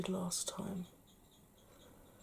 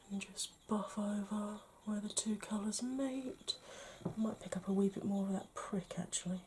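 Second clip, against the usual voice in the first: whispering; slower than usual. Acted. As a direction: whisper each step gently. Whispered makeup demo.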